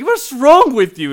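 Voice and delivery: very high, loud and slow; drawn-out hammed-up scream; mock yell. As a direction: bellow it out in outrage. Yelling at friend in story.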